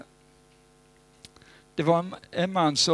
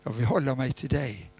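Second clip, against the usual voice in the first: sincere surrender. Retold or imitated. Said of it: "bestämmer dig och säger".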